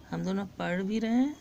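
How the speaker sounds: "हम दोनों पढ़ भी रहे हैं" rattled off fast. Shown as a demonstration. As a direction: rush the repeat, almost as a recap. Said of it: "repeated while teaching".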